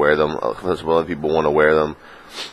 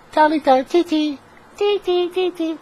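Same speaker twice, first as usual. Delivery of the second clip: very high squeaky falsetto chant; playful falsetto; slower than usual. Pretend. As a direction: chirp it in a silly, very high little voice. Playful squeal on his catchphrase.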